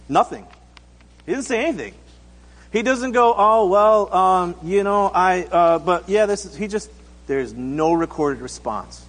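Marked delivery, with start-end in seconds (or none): 3.4-6.5 halting, fumbling excuse; hesitant stammering. Acted. Would-be follower fumbling a reply to Jesus, hesitant. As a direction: trip over fillers as if hunting for an answer.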